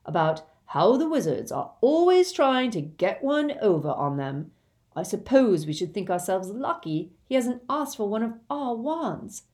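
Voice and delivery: lightly voiced sarcastic Ron; mildly scoffing, swinging up in pitch; dismissive Ron. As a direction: grumble with mild sarcasm. Ron dismisses the goblin's claim.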